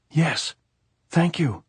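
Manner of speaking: high, loud cry through tears; choked shout. A narrator's reading. Maria shouting thanks back to Pilar, choked high cry. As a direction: shout back choking on relief. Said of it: "shouted, choking".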